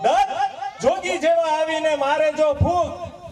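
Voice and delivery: slow the line down, chuckling through it. Shown as a demonstration. Comedian repeating the verse slowly to the crowd. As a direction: stretch the repeat, laughing as you go.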